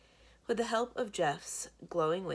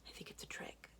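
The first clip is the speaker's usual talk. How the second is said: whispered warning; 13 dB quieter than usual. Acted. Boy warning his friend not to open the door, whispering. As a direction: whisper it right into his ear. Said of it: "I whisper in his ear".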